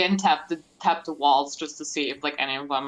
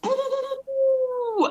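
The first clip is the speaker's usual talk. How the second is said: put-on bright magical girl. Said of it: "magical girl transformation".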